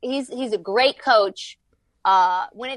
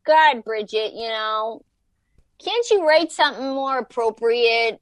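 scandalized mom; 4 semitones higher than usual. Retold or imitated. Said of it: "did they go".

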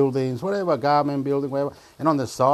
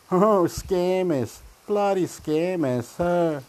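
scornful; 5 semitones higher, slower than usual. Real, not acted. Scornful drawn-out jeer at scammers.

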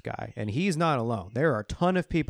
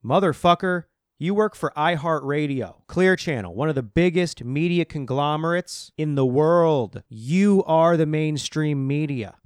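loud, higher, furious rant; louder and higher all the way through, shouting him down; angry outburst; 4 semitones higher, 5 dB louder than usual. Real, not acted. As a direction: tear into the hypocrite at full volume. Ranting at hypocritical host.

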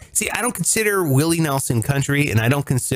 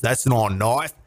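Crocodile Dundee; 4 semitones lower than usual. Acted. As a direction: put on a broad Aussie movie accent. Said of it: "I grew up watching Crocodile Dundee".

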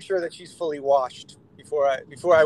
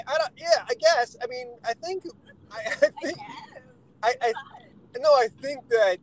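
flustered laughing; 8 semitones higher than usual. Real, not acted. Flustered after explicit message.

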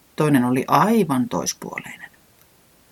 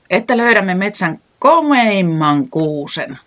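exclaiming; 6 semitones higher, 5 dB louder, slower than usual. A narrator's reading. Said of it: "huudahti Reporankka".

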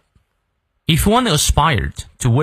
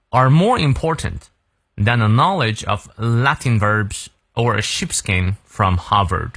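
model read-through. Shown as a demonstration. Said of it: "再来一遍".

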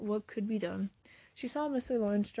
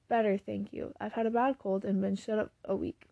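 lightly hoarse, croaking like a raven; a hint of a raw, croaky throat. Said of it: "croaked out as hoarsely as a raven".

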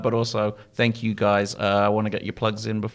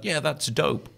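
mock-cool, slightly raised pitch; sarcastic; 5 semitones higher, slower than usual. Host quoting his old joke phrase, sarcastically. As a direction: satirical old person trying to sound young. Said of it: "I would say a thing sarcastically".

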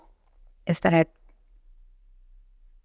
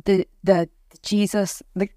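real crying through the words; snotty crying. Real, not acted. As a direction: push on while crying. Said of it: "I'm doing an ugly cry".

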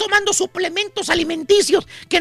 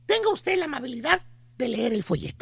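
lightly voiced mall saleswoman, softer and lower; pushy saleswoman; 3 semitones lower, 5 dB quieter than usual. Mall saleswoman selling a miracle cure, softer and lower. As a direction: play the sweet-talking pitch lady. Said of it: "la chuntara con el típico folletito".

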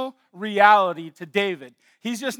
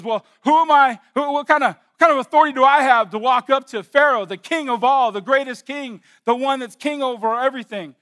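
Moses protesting; 4 semitones higher, 4 dB louder than usual. Retold or imitated. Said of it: "Moses says".

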